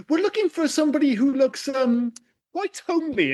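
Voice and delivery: high, prim casting director. Retold or imitated. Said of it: "they're just like".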